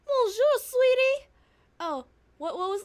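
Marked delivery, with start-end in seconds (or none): 0.0-1.3 put-on loud, gushing French accent; terrible French accent. Desiree greeting her Ronnie, loud hammed-up French accent. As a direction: greet a darling in a bad French accent, leaping high. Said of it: "is my terrible accent".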